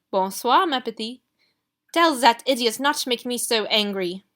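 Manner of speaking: put-on loud, fussy French-accented dressmaker. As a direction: gush over Ruby, scold Gideon. Rossini voice held.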